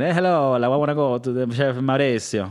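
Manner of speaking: playful mock Italian accent. Shown as a demonstration. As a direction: slip into an Italian accent as a greeting. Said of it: "I go more in the Italian way".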